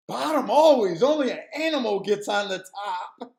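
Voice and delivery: straight-faced country guy; deadpan serious. Retold or imitated. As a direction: say it flat and serious. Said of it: "he was deadpan serious".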